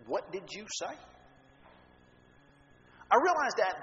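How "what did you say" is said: serious authoritative. Retold or imitated. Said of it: "in a very serious, authoritative voice".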